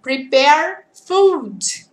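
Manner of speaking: "Prepare food." drawn out word by word; very slow definition. Shown as a demonstration. Teacher explaining the word "cook" very slowly. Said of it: "Cook, cook".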